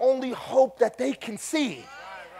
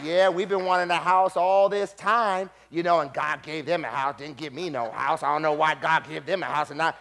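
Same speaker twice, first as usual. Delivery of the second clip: lightly voiced envious complaint; jealous grumbler; 5 semitones lower than usual. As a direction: mutter it like a resentful church member. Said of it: "you may be sitting there going".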